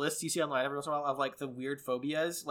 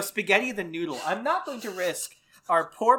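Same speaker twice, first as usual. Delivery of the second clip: usual speaking voice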